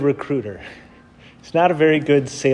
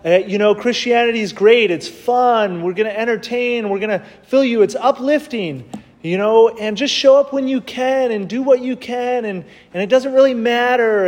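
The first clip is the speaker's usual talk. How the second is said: breezy easy Christianity pitch; 6 semitones higher than usual. Retold or imitated. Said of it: "to kind of say".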